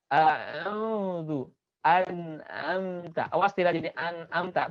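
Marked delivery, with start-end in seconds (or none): 0.1-1.5 A'udzu with a tight mid-throat ain; throat-squeezed ain; clear ain. Shown as a demonstration.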